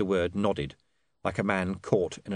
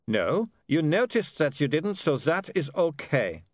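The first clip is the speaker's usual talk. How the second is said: put-on higher-pitched vampire with Germanic accent; kindly vampire; 8 semitones higher, 3 dB louder than usual. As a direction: reassure a friend in a comic vampire accent.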